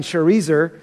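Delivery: "Sharezer" said shuh-REE-zer; first pronunciation option. Shown as a demonstration. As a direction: say "Sharezer" with an unstressed first syllable and a long "ee". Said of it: "pick out whatever name".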